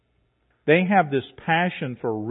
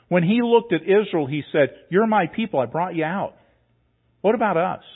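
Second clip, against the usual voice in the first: raised, ringing pulpit voice; emphatic preaching; 4 semitones higher, 4 dB louder than usual. Real, not acted. Pastor to congregation, raised and emphatic. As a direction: lift it loud to drive the point.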